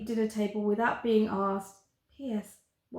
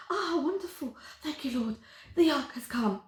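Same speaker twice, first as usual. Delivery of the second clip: higher, breathless delight; delighted gush; 5 semitones higher than usual. Acted. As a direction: gush like a prayer answered. Girl delighted to see the monster.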